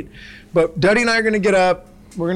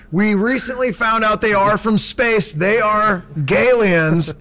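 higher stoner-dude storytelling; Snake OG voice; 3 semitones higher, slower than usual. Acted. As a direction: tell it like a goofy baked host. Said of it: "doing the Snake O G voice".

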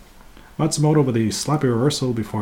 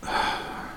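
soft exasperated exhale; weary sigh; 9 dB quieter than usual. Real, not acted. Podcaster fed up after rolling their eyes, soft sigh.

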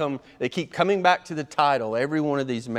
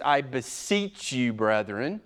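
put-on slow, solemn old-style quote; King James reading; 2 semitones lower, 3 dB quieter, slower than usual. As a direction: read it like stately old scripture. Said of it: "I might just quote the King James".

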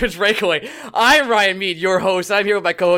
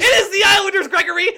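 outraged shout; 6 semitones higher, 4 dB louder than usual. Real, not acted. Outraged at rival team matchup.

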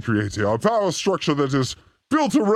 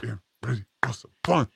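mock hype voice; 6 semitones lower, 6 dB quieter than usual. Hyping up before the fun segment.

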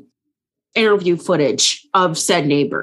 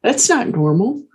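surprised; 5 semitones higher, slower than usual. Retold or imitated. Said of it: "I was like".

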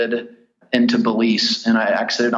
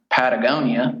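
Patagonia in a broad American accent; anglicized Patagonia, "pat-uh-GOH-nee-uh"; gringo accent. Shown as a demonstration. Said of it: "I said that in the gringo accent".

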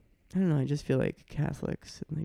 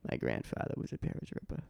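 Boston accent; 12 semitones lower, 5 dB quieter than usual. Shown as a demonstration. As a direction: lower Boston accent, softer. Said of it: "I'm doing some Boston accent bits".

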